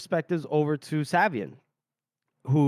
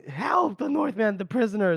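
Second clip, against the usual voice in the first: retold cry for help; 5 semitones higher than usual.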